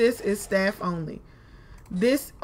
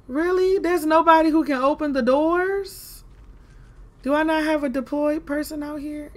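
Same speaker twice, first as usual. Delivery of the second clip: annoyed; 6 semitones higher, 4 dB louder than usual. Real, not acted. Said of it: "I'm getting mad".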